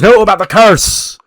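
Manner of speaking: high, loud exasperated correction; exasperated outburst. Retold or imitated. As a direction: blurt it out like they've missed the obvious. Correcting an oblivious character in acted scene.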